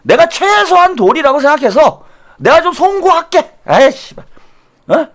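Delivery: sneering, high mocking parody of a grudging apology; whiny fake contrition. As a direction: ham up an insincere politician's sorry.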